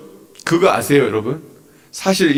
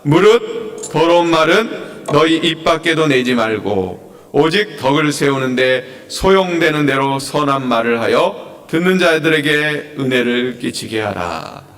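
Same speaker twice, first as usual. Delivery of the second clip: slow, measured read-aloud; scripture reading; 2 semitones lower than usual. Acted. Preacher leading the congregation through the verse, slow scripture reading. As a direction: read the verse out slowly and deliberately.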